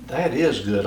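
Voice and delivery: talking with a mouth full of food; words pushed around a bite. Real, not acted. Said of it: "I'm not gonna talk with my mouth full".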